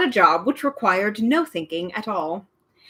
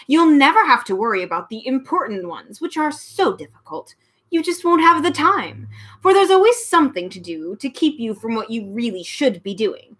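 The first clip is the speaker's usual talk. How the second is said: lightly voiced sly villain; a hint of an oily ogre; sly villain Trivium; 2 semitones higher than usual. The Trivium tempting the children, lightly sly.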